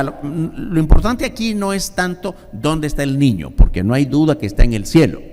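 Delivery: normal talking voice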